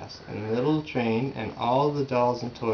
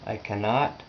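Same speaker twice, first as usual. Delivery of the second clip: put-on tired old engine. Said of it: "the rusty old engine sighed".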